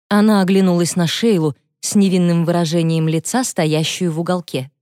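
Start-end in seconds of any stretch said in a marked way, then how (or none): none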